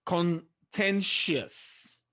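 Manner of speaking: contentious broken up slowly, TEN stressed; stress on second-last syllable. Shown as a demonstration. Teacher demonstrating the rule, contentious slowly with stress on TEN. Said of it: "the second syllable from the end".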